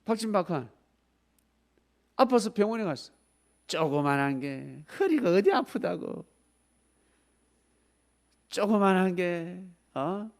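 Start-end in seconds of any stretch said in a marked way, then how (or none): 3.7-10.3 mock dismissive doctor. Doctor to a patient, scornful dismissal. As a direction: brush the patient off.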